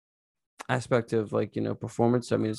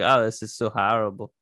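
lightly attempted Boston accent; poor Boston accent. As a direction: have a half-hearted go at a Boston accent. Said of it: "piss poor Boston".

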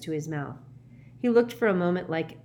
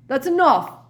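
loud, high, abrupt protest; sudden outburst; 9 semitones higher, 10 dB louder than usual. A narrator's reading. Professor stops Harry's account, sudden outburst. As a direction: cut in suddenly, pitched up. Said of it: "said Slughorn suddenly".

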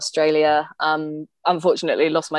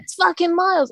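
high, incredulous mock protest; hammed-up disbelief; mock outrage; 11 semitones higher than usual. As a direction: squeal it like they can't believe it. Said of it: "They're like".

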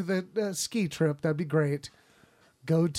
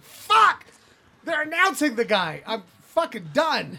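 panicked realization; 4 semitones higher than usual. Retold or imitated. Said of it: "I'm like".

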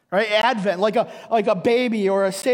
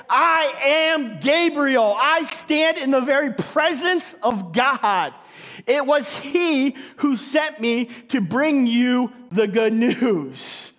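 commanding angel; 2 semitones higher, slower than usual. Retold or imitated. Gabriel declares himself.

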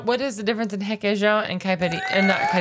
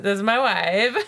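Borat impression; slower than usual. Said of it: "isn't that Borat?".

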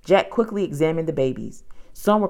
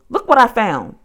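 louder, higher eager call; excited raised voice; 7 semitones higher, 6 dB louder than usual. A narrator's reading. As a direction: call her over to see your find. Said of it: "Jack called".

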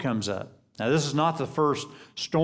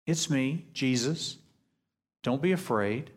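softer, calming voice; gentle reassurance; 4 dB quieter than usual. Retold or imitated. Jesus answering the frightened apostles, softly reassuring. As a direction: soothe frightened friends.

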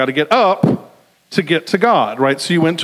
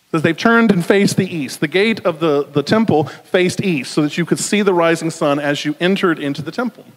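ordinary talk

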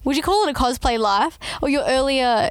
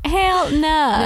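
laughing echo; 5 semitones higher than usual. Acted. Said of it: "echoing Brooke's refusal".

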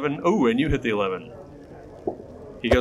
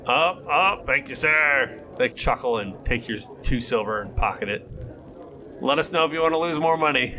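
sly goblin gambler; 2 semitones higher than usual. Acted. Goblin gamblers taunting the player.

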